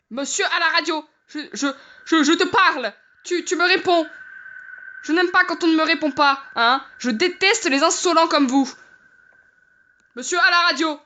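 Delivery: hammed-up telling-off; mock indignation. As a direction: demand an answer in pretend outrage. Scolds silent radio man.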